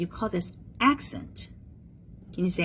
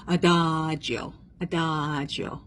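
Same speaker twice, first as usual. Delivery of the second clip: drawn-out; 3 semitones lower, slower than usual. Shown as a demonstration. Teacher models slow tempo term.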